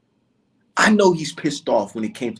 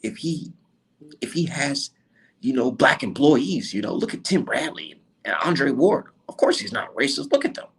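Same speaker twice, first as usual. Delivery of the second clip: mocking critics. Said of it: "People today told me".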